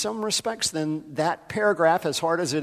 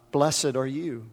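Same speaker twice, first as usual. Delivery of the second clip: gentle blessing; slower than usual. Real, not acted. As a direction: bless her gently by name. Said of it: "I'm speaking to you".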